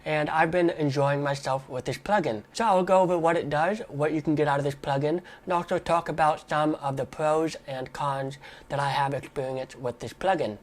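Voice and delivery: stuffy nose from a cold; nasal, blocked-nose voice. Real, not acted. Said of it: "Sorry I sound a little nasally today".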